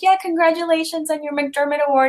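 high-pitched, overeager fan praise; gushing congratulations. Retold or imitated. Tipsy fan repeating praise to a star, gushing.

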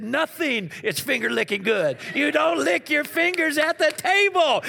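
rising to a loud, high scold; stern teacher correcting. Retold or imitated. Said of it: "She said".

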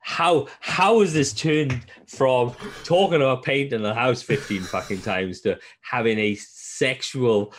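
high, slow, stunned disbelief; stammering in shock at a sudden turn. Retold or imitated. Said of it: "I was like".

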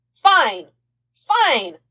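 loud, hurried yes; eager agreement. A narrator's reading. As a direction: blurt it out excitedly. Aang agreeing in a rush.

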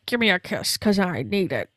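low-key imitated smooch request, timbre put on; mock affectionate plea. Host contrasting the robotic hug, mock affectionate voice. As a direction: lightly play someone begging a kiss. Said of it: "it's the exact opposite of".

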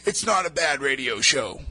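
put-on radio show voice; radio voice demo. Shown as a demonstration. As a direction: lightly put on a steady radio-host voice. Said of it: "if I talk like this".

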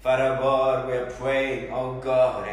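earnest, pleading prayer voice; fervent prayer. Acted. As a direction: pray aloud over the congregation. Leads congregation in prayer.

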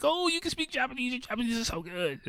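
high squeaky gushing, imitated; mock falsetto amazement; super pumped. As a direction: gush compliments like a thrilled stranger. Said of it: "he's, like, super pumped".

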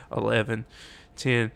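a game-clock countdown swelling into a scream; building countdown shout. Retold or imitated. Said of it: "I just start getting louder".

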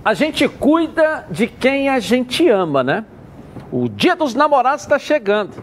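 upbeat live radio ad read; hard sell ad. Acted. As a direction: sell it like a sponsor spot. Host reads live sponsor spot.

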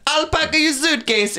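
squeaky high silly voice. Retold or imitated. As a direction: say it high and goofy. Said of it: "I just said".

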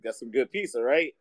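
lightly voiced owner, pitched low; a hint of an owner fishing for praise; shop owner. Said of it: "he didn't say good ass".

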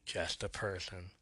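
quiet, low and soft closing line; soft whisper. Retold or imitated. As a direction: let it drop to a hush. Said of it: "He whispers softly".

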